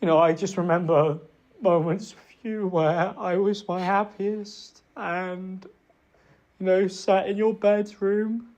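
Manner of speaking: fake tearful quiver. Real, not acted. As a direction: sound like forced crocodile tears. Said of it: "like, nasal and quiver".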